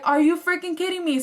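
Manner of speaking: exasperated disbelief. Retold or imitated. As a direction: blurt it out, fed up. Sees octopus lady again.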